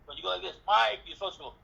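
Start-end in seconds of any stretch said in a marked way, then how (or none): 0.7-1.0 calling out. Shown as a demonstration. Showing how you call down.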